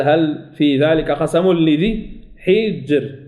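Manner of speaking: slow, measured tajweed recitation; Quran recitation. Shown as a demonstration. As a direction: chant the verse slowly, stretching each sound. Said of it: "قال". (تلاوة مرتلة بطيئة)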